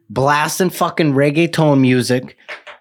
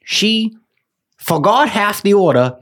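indignant rant; 5 semitones higher than usual. Real, not acted. Telling his cohost about the botched delivery, indignant and high-pitched. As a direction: pitch climbs high in exasperated disbelief.

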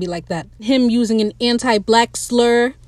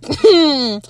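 mock sceptical hedging; side-eyeing skeptic; 2 semitones higher than usual. Crewman doubting the captain's claim, side-eyeing skepticism. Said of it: "He's side-eyeing him".

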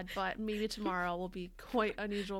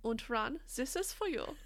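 put-on German accent; 5 semitones higher than usual. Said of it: "in a German accent".

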